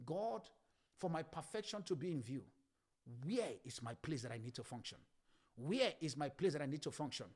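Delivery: soft, low plea to God; pleading prayer. Acted. Believer seeking God for their place, pleading quietly. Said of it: "cry your way and seek God".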